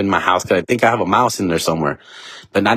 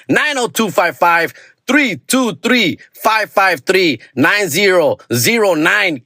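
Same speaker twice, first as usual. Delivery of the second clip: slow phone number; 8 semitones higher, slower than usual. Acted. Phone number read out slowly.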